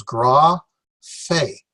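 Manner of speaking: gra then fe set apart and stressed. Shown as a demonstration. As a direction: lean on the fe of gra fe. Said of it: "The stress is on the fe".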